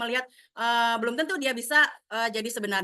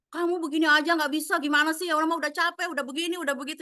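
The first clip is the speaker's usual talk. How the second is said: higher, exasperated scolding; sudden scolding; 5 semitones higher than usual. Retold or imitated. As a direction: scold the child out of the blue. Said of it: "jangan tiba-tiba kita marahin". (ibu tiba-tiba memarahi anak)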